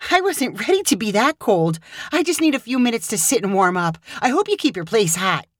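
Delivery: a chilled friend asking to warm up; Hannah's voice. Acted. Hannah on the stairs telling Caleb she is cold.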